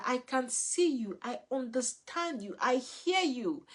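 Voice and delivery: reassuring parent. Shown as a demonstration. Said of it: "let our children know that".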